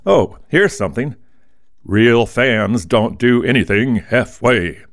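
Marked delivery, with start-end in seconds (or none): 1.9-4.8 slow, booming football announcer voice. Acted. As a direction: announce it like a stadium football broadcast. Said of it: "I said that in my football announcer voice".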